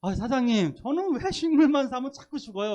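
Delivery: acted-out customer complaint; puzzled customer. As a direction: ask the shop owner as a baffled customer. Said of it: "그 파시는 분들이 그 얘기를 하더라고요".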